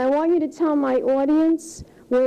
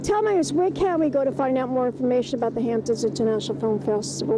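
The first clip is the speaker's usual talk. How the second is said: breathy gushing showbiz host; gushing red carpet chatter; 3 semitones lower than usual. Acted. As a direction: gush over the guest like a glam host. Hosts red carpet show in character.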